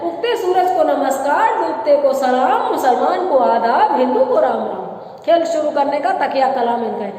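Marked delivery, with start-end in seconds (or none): 0.0-4.8 swinging street-showman chant; magician's tone. Shown as a demonstration. Teacher showing how a magician greets his crowd, showman's lilt. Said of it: "तो जादूगर की tone है".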